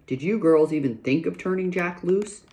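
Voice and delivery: a touch of stern, grave questioning; mildly stern father demanding an answer; dreadful voice. Acted. Pa questioning his daughters about Jack, mild stern tone. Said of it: "he asked in a dreadful voice".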